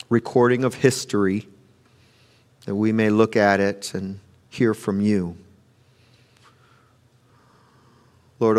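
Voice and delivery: softly spoken, unhurried prayer. Real, not acted. Pastor asking the Lord to open hearts, softly prayerful. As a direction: pray quietly, pausing between petitions.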